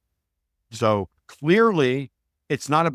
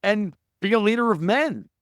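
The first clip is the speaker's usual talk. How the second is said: exhorting shout; 7 semitones higher than usual. Retold or imitated.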